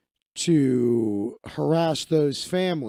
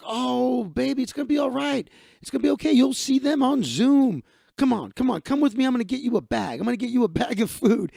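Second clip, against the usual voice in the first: high-pitched, emphatic imitation of comforting; effusive consoling; 7 semitones higher, 4 dB louder than usual. Man consoles the crying woman, effusive reassurance. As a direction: imitate fussing over someone who is upset.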